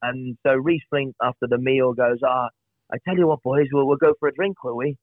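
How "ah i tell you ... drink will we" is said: a rough, self-mocking Welsh accent; bad Welsh accent. Mate imitating a Welsh teammate in a mild Welsh accent. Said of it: "you know, my terrible accent".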